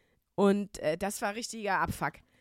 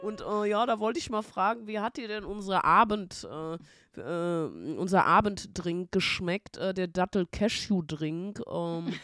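tedious caller; 2 semitones lower than usual. Retold or imitated. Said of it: "der wurde dann ja auch immer schlimmer".

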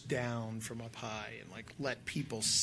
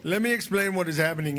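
pilot voice; 5 semitones higher, 8 dB louder, faster than usual. Pretend. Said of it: "in my best helicopter pilot voice".

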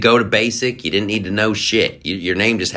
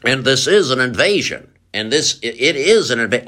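mock pundit; 4 semitones higher than usual. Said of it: "I've had it with the pundits".

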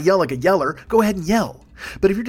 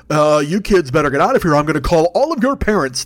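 put-on loud, dragged-out threat to rowdy kids; mock grown-up scolding, pushed louder; put-upon householder warning the kids off; exasperated homeowner; 2 semitones lower, 4 dB louder than usual. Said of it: "you were like".

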